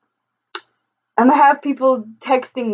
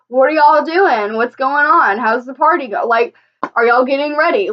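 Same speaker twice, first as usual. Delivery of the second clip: raised, upbeat fake call to friends; chirpy made-up phone chatter, a bit higher; mock cheery phone chat; 4 semitones higher than usual. Faking a call so the driver hears, upbeat.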